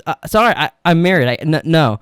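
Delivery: imitated flustered refusal. Acting out mom telling a stranger she's married, mildly flustered. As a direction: trip over the words as if startled. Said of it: "it really startled her".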